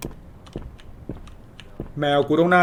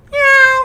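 high mock cat meow; 4 dB louder, slower than usual. Calling cat by meowing.

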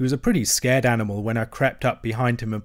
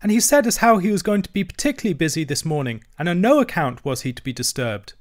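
higher-pitched, earnest youngster; small creature's raised, respectful voice; young hedgehog; 6 semitones higher than usual. A narrator's reading. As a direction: report it like a deferential country lad. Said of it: "replied the hedgehog".

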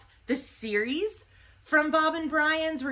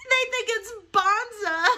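higher and louder, savoring bonza slowly through a laugh; amused laughing repeat; 10 semitones higher, 3 dB louder, slower than usual. Real, not acted. Amused at the label, repeating bonza with a laugh.

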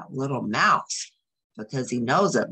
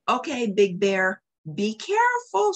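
very high, louder little-mouse cry; shouted; 6 semitones higher, 4 dB louder than usual. Acted. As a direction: call out anxiously from inside the house. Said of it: "shouted Little Mouse from inside".

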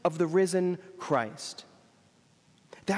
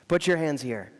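gentle repeat; 3 semitones lower than usual. Retold or imitated. Jesus repeating his invitation to Thomas, lower pitch, full level. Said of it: "you can just hear the smile in his eyes".

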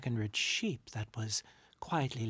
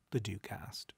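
usual speaking voice

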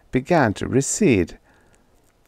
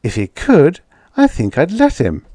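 higher, sugary tease; sweetly teasing; 7 semitones higher, 5 dB louder than usual. A narrator's reading. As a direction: sweetly needle him with a lilt. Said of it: "returned Edith sweetly".

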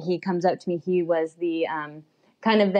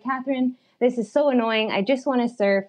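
mildly annoyed retold complaint, slightly higher pitch; 4 semitones higher than usual. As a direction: act out a mild, frustrated complaint to a friend. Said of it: "I'm just getting annoyed".

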